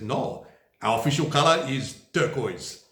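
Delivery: a clumsy, hammed-up German accent; bad German accent. Vlogger quoting the German CDU in a bad German accent. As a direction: put on a deliberately poor German accent for the party's line. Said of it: "That was a very bad German accent".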